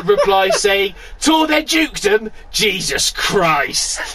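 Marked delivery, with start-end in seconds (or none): 1.2-4.0 outraged quote. Retold or imitated. Reading out an indignant reply.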